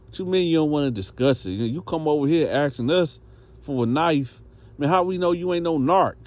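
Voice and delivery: rising incredulous challenge; challenging. Retold or imitated. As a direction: question him with mounting suspicion. Inmates challenge his request.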